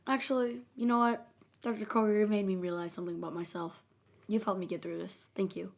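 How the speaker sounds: soft, settling into a quiet thank-you; mock-sincere, gently subdued gratitude; acted acceptance. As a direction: imitate someone calmly coming to terms. Acting out the acceptance stage.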